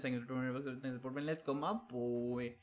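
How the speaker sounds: very slow stretched thanks and sign-off; drawn-out catchphrase. Real, not acted. Streamer dismissing a chat rumour, very slow drawn-out. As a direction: drag the words like a slow chant.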